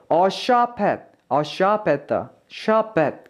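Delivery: SHOP AT run together so the p carries into AT; linked sounds. Shown as a demonstration. Teacher demonstrating linking to learners, SHOP AT joined into one sound. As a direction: link SHOP AT as sha-pat. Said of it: "여기서 좀 연음에 신경 쓸게요".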